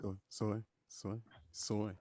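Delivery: "soy" repeated softly, each one syllable; one-syllable pronunciation. Shown as a demonstration. Friend drilling his pal on soy, softly in one syllable. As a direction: repeat "soy" quietly with no added ee. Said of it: "it's just soy".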